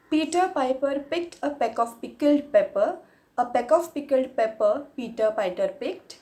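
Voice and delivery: performing a tongue twister for viewers; tongue twister recital. Shown as a demonstration. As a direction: rattle it off as a challenge. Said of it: "the first tongue twister in English is".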